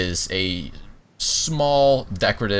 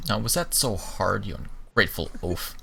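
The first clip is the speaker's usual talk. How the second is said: haughty scold; 5 dB quieter than usual. Acted. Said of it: "stiffly marches back over".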